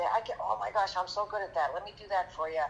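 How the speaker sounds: playfully overselling to land the job; retold eager pitch. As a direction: imitate a kid talking up their skills. Retold eager pitch for odd jobs.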